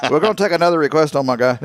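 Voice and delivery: excited radio host. Retold or imitated. Imitating the New Mexico radio host, fast and loud. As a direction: blurt it out like a hyped basement DJ. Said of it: "he just kept saying".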